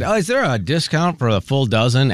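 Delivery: lightly acted innocent question; a touch of mock innocence; feigning ignorance. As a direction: ask as if you didn't know. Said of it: "like I didn't know".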